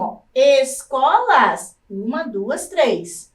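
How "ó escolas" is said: escolas stretched slowly as es-co-las; syllable by syllable. Shown as a demonstration. Teacher to class, sounding out escolas slowly. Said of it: "Assim como".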